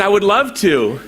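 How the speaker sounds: high, loud, laughing acceptance; delighted yes. Retold or imitated. A singer's mom eagerly agreeing to produce, delighted and laughing. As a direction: gush it out with a laugh.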